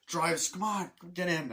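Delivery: hyped-up urging; eager urging. Retold or imitated. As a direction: hurry him into the car. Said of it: "He goes".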